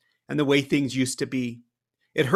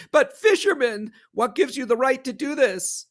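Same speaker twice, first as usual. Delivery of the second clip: much higher, frightened plea; a scared man pleading; 11 semitones higher, 4 dB louder than usual. Acted. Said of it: "just another frightened man".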